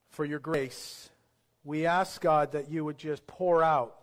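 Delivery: measured prayer with long pauses, sinking at phrase ends; public prayer. Real, not acted. Pastor asking God to touch those without salvation, in earnest prayer.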